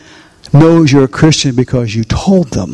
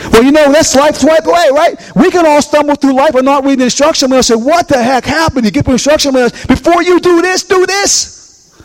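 exasperated mimicry; 12 semitones higher than usual. Pastor mimics people stumbling through life without the manual, high and exasperated. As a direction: push it high and stretch the final warnings.

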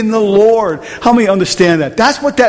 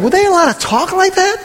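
high incredulous question; retold disbelief; 11 semitones higher than usual. Preacher replaying his inner question about coworkers, high-pitched disbelief. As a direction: act out being scandalized. Retells disbelief at overheard talk.

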